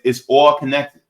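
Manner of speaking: put-on "all" stressed in a Jersey accent. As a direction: lean on "all" like a Jersey guy. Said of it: "my Jersey accent".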